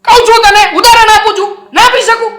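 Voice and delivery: husband covering up his debt with forced high protests; defensive forced joking. Acted. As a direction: laugh it off too hard to hide the truth.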